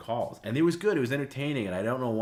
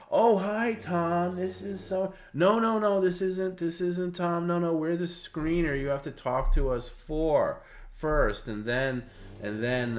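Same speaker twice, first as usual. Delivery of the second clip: put-on high, quavering old man voice, much higher and louder; 10 semitones higher, 7 dB louder, slower than usual. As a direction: play a doddering old man calling in. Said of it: "an old man voice".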